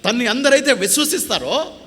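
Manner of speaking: high, loud, proclaiming preacher's cry; full-force preaching. Acted. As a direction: lift it to the whole church, ringing out. (గట్టిగా, ఎత్తైన స్వరంతో ప్రసంగం)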